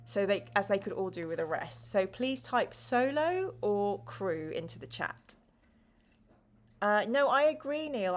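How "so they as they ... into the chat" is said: measured, clear read-aloud of the scene; story narration. Acted. Host narrating the gamebook to chat in a storyteller voice. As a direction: set the scene for the players.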